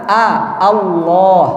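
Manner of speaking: "A, Allah" slow, clear open a. Shown as a demonstration. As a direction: draw out the a before "Allah". ("Allah" pelan dengan a terbuka)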